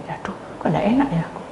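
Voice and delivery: fast uneasy whisper to himself; whispered thought. Acted. Man uneasy at the party, whispering to himself. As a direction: breathe it out as a guilty inner thought.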